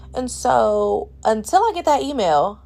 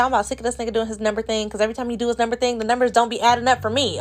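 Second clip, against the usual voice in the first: fed-up rant; much faster than usual. Retold or imitated. Fed up with repeated quotes.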